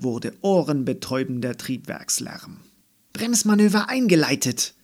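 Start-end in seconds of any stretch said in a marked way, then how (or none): 3.1-4.7 high, loud cockpit announcement; called out. A narrator's reading. Andi plays astronaut in a space capsule, calling out loudly. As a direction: call it out like a spaceship pilot. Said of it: "rief Andi".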